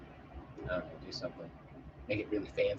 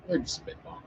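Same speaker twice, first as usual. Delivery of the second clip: breathy whispered comment under the breath; whispered aside; 6 semitones higher, 9 dB quieter, faster than usual. Real, not acted. Whispered aside to viewers about the plan.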